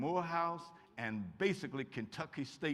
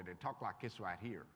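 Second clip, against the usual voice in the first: low, soft demo of the Southwest Virginia Appalachian way of talking; a quick Appalachian accent sample; 9 semitones lower, 7 dB quieter than usual. Shown as a demonstration. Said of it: "here's the way they talk over there".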